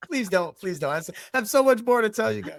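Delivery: high, fast, loud laughing protest; laughing plea. Real, not acted. Asking hosts not to end the interview, laughing. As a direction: beg them with a laugh not to stop.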